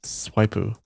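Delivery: put-on swipe said as "Swipu" in a light Japanese accent, extra u on the end; playful mock Japanese accent on "Swipu"; "Swipu" with a light Japanese accent, the vowel u added after the p. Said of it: "a Japanese accent".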